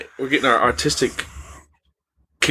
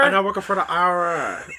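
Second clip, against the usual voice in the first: higher-pitched fake Bangladeshi tax caller; mock Bangladeshi accent; 4 semitones higher than usual. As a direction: pose as an official in a bad Bangladeshi accent. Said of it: "can't do that accent".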